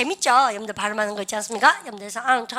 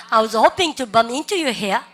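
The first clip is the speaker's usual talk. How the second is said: very slow, each word spelled out for students; teacher's slow drill read; slow repeat-after-me; much slower than usual. Shown as a demonstration. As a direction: model it slowly for the class to copy. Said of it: "시작".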